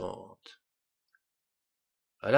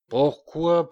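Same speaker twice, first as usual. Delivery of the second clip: loud, higher furious question; 6 semitones higher, 7 dB louder than usual. A narrator's reading. King turning on the dwarf in fury. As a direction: fling it out higher in rage. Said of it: "avec fureur".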